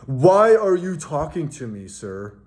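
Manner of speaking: hammed-up offended stranger yelling, fading on sir; mock outraged yell. Stranger in a store yelled at the vlogger: loud mock outrage. Retold rude stranger snapping back.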